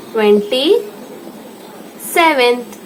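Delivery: ट्वेंटी, a pause, then सेवेंथ; ट्वेंटी सेवेंथ said in two separate halves; split for dictation. Shown as a demonstration. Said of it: "ये है ट्वेंटी सेवेंथ".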